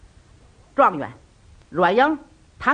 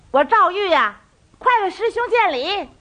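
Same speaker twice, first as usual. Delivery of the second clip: much higher, showy self-announcement; putting on airs; 11 semitones higher than usual. Acted. Young Zhao Yu grandly greets his elder brothers, puffed-up and high. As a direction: puff yourself up grandly. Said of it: "这回他也洋梆上了".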